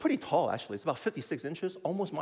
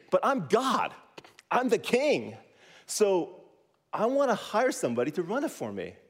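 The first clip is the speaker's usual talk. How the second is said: God's voice; 6 semitones higher than usual. Retold or imitated. Preacher voicing God to the class, proud and booming. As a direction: play God showing off his world. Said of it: "God's like".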